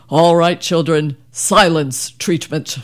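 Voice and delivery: firm opening, then slow, measured order; lightly voiced father laying down the law; stern father. Father to rowdy kids in the car, stern announcement. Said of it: "my father would say".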